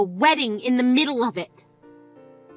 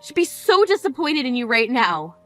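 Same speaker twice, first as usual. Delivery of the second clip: scolding. Acted. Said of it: "Why are you talking to me like this?".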